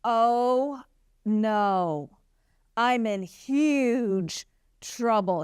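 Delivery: slow, dismayed mock panic; a hint of a scared Haman realizing he's in trouble; Haman panicking. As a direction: act out a villain caught off guard. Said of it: "all of a sudden you're like".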